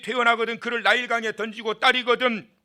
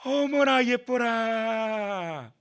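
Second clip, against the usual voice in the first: put-on slow, drawn-out coo over a baby; cooing delight; 3 semitones higher, much slower than usual. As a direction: sigh it out like a charmed princess. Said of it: "뭐라 그러죠?". (아기를 보고 감탄하는 공주, 느리게 늘이는 "어머나 예뻐라")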